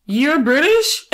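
slow, high disbelieving "You're British?"; drawn-out amazed question; mock surprise. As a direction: act stunned by the accent. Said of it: "and I'm just like".

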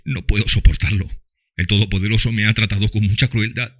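bitter father. A narrator's reading. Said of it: "con cruel énfasis".

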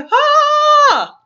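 loud, high burst. Acted.

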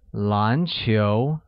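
篮球 with a rising tone on both syllables; mid-rising tones. Shown as a demonstration. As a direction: let each syllable of 篮球 climb from low to mid. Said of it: "uses a mid-rising tone on both".

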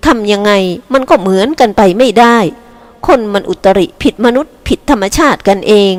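lightly voiced old lady, scornful; a hint of a cross grandma; disgusted grandmother. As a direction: brush off the argument with mild disgust.

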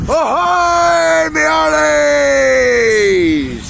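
loud high pirate ahoy; pirate hail. Pretend. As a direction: call across the water like a pirate. Hailing the other boat.

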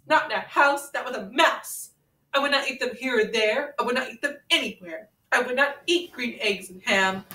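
sing-song read-aloud to a friend; storybook reading. Acted. Reading Green Eggs and Ham to Ren, storybook lilt. Reads Dr. Seuss book aloud.

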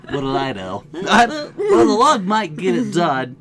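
loud, laughing mimicry of a partner; mocking imitation. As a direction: tease by parroting them through laughter. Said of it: "Are you mocking me?".

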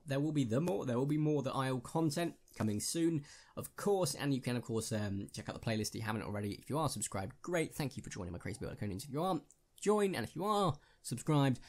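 normal talking voice

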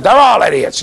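high, loud mock shout; indignant child's outburst. Retelling a girl's answer to her classmates, indignant shout. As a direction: imitate an exasperated kid yelling.

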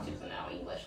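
imitating a listener in a low unvoiced whisper; mock whisper. Listener mocking her English in a whisper. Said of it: "and you're like".

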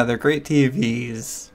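slow, drawn-out mock praise; sarcastic. Real, not acted. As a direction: stretch out fake enthusiasm.

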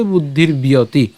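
"বুদ্ধির বিয়তি" slowly run together as one word; joined pronunciation. Shown as a demonstration. Teacher saying the parts together, "বুদ্ধির বিয়তি" slowly joined. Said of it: "আমরা যদি একসাথে বলি".

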